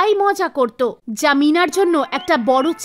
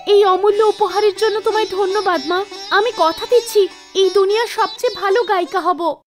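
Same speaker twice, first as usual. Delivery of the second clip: lightly voiced girl, pitched up; grateful young singer; 4 semitones higher than usual. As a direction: make an earnest, thankful vow. Meena thanks goddess and promises.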